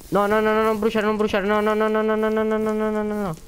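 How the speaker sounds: shrill panic cry; panicked no no no. Real, not acted. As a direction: beg desperately as everything burns. Pleading as items burn.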